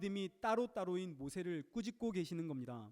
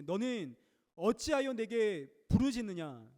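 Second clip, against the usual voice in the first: slow, louder divine rebuke; stern rebuke; 2 semitones higher, 5 dB louder, slower than usual. Retold or imitated. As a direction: scold Moses slowly and firmly. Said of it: "모세를 꾸짖습니다". (느리고 엄하게 꾸짖듯이)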